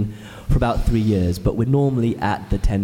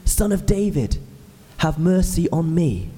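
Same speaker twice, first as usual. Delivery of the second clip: high, pleading call across the crowd; 5 semitones higher than usual. Retold or imitated. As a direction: cry out to Jesus for mercy. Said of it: "they hear a voice calling out".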